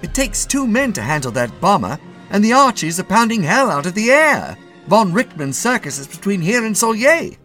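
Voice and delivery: high, loud, urgent sergeant; anxious. A narrator's reading. Sergeant warning captain off a solo flight, anxious. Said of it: "said the sergeant anxiously".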